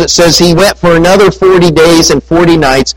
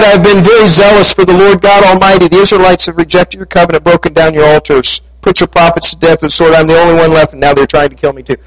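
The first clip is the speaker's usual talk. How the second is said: fast, rushed repeat of the complaint; rattled off again; 3 semitones higher, faster than usual. Retold or imitated. Preacher repeats Elijah's same complaint to God, fast and rushed. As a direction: hurry through it like a tired excuse. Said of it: "Pretty much the same thing he said before".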